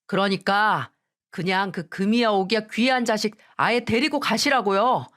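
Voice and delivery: annoyed, curt; husband coldly brushing them off; husband telling mother-in-law to take his wife away, annoyed; irritated dismissal. Acted. Husband declares divorce.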